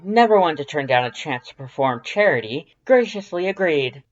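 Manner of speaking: high, loud, proud skeleton voice; Papyrus storytelling voice. A narrator's reading. Papyrus telling Dance about the beach, high and loud. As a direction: tell it like a grand proud skeleton. Papyrus narrating his tale.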